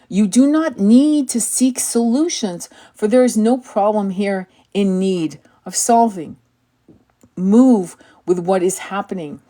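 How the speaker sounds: measured, solemn inspirational read; calm, deliberate spiritual reading; oracle card reading. Acted. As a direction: read it like a sacred message. Reads the oracle card text.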